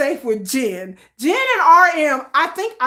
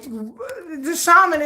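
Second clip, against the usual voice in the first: slow drawn blame; 3 semitones higher, much slower than usual. Retold or imitated.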